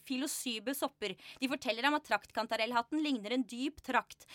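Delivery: lively, evenly flowing literary reading; story narration. A narrator's reading. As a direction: read the tale aloud to an audience. Reads on from her book.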